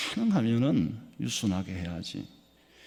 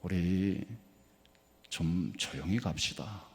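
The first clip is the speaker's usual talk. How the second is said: polite hush request; 6 semitones lower, 5 dB quieter than usual. Retold or imitated. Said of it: "이 사람이 그랬대".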